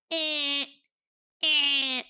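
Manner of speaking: short high beeping "eh, eh" like a smoke alarm; imitated fire alarm beep. Mom mimicking the beeping alarm for her listener, mock beep. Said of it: "like a fire alarm".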